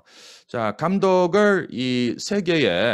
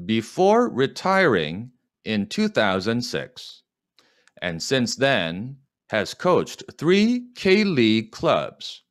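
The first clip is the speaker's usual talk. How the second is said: slow dictation; much slower than usual. Shown as a demonstration. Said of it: "slow model reading".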